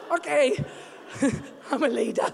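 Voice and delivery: mock-pitiful giving in with a little laugh; hammed-up small, defeated voice; meek, tearful compliance. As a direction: act sniffly and reluctant to agree. Retold tearful giving in to husband.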